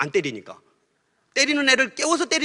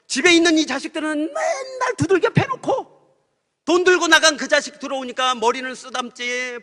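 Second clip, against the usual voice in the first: higher, shouted grievance of a jealous son; mock complaint shout; 6 semitones higher than usual. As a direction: yell it like a sulking child. Railing at God's unequal love. (서운함에 높이 외치듯이)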